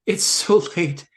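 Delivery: slow, drawn-out hammed-up tiredness; mock weary heroine. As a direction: stretch the words like a badly acted sleepy girl. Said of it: "she says these things out loud".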